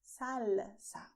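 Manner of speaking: "salsa" drawn out on the L, as in London; clear L. Shown as a demonstration. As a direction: hold the L in "salsa". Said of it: "The same letter L that you have in London".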